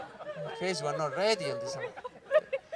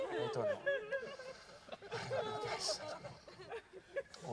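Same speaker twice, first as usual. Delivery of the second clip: bewildered falsetto; 15 dB quieter, slower than usual. Acted.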